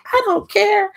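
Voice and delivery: very high, loud retort; defiant outburst. Retold or imitated. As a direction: blurt it loudly in indignation. Mother snaps back at teacher.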